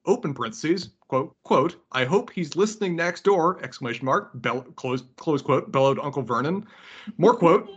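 reading aloud with every comma spoken; dictating. Shown as a demonstration. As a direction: read it out, saying each punctuation mark. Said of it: "reading out, out loud the punctuation".

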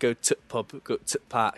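"tut" for "to the", Northern style; mock Northern English, shortening "to the" to "tut"; lightly imitated Northern English dialect; Northern English colloquial. Shown as a demonstration. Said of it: "slash northern colloquials".

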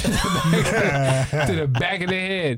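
laughing. Real, not acted. Laughs while saying.

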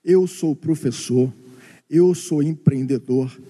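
lightly voiced orthodox Jew, low and measured; a hint of an old orthodox Jew, pitched well down; imitating a Jew. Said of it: "ele nunca vai dizer assim".

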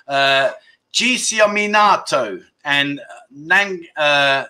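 slow, tongue stuck on the roof; words thick with a stuck tongue; tongue stuck to roof of mouth. Real, not acted. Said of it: "my tongue's got stuck to the roof of my mouth".

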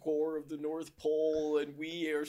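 low villain voice; dragon voice. Acted. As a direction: rumble it like a dark overlord. Santa reveals evil plan.

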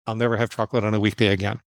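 same rule, said fast; quick restatement. Retold or imitated. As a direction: run through the rule briskly in one go. Repeats the rule more quickly.

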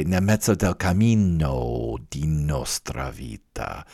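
cammino said in full with a long double n; corrected Italian. Shown as a demonstration. Reading the corrected line to the class, Italian line with cammino spelled out. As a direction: cammino with the final o sounded out, Italian-style. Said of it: "does correct it and say".

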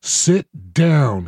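a touch of a snap, read aloud; snapped order. Acted. Admiral orders the squabbling board to sit, mildly snapped. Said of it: "he snapped".

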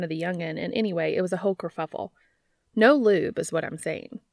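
hasty. Acted. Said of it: "she added hastily".

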